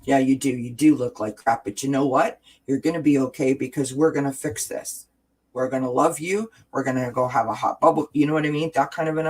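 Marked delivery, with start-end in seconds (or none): 0.0-8.1 spoken aloud in a plain, firm voice; out-loud self-talk, matter-of-fact. Shown as a demonstration. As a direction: say it out loud to yourself, steady. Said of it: "tell it out loud".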